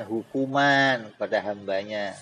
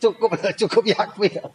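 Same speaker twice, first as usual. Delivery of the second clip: higher, pleading cry of enough; hell surrendering; 7 semitones higher, 4 dB louder than usual. Retold or imitated. Preacher voicing full hell begging Allah to stop, pleading higher. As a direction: beg for it to stop, pitched up. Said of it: "dipenuhin nerakanya".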